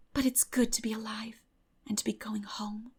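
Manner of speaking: whispered on breath, almost no voice. Acted. Anne riding home under the moon, breathy whisper. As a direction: breathe it out in awe at the moonlit sea. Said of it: "breathed Anne".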